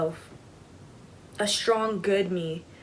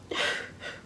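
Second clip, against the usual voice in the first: unvoiced sigh; 6 dB quieter than usual. Upset sister told not to cry.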